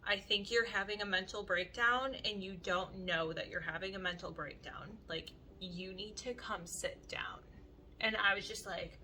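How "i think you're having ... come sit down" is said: soft reassurance. Retold or imitated. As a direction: talk her down gently, fading to a hush. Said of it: "and he's like".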